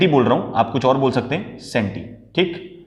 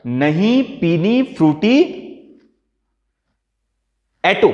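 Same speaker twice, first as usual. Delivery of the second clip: put-on slow, drawn-out sulky whine of a girl; sulky child's refusal; 4 semitones higher, much slower than usual. Shown as a demonstration. Teacher acting the sulking girl who refuses her Frooti. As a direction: drag out the refusal like a pouting kid. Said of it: "अपनी माँ का नाम लिया".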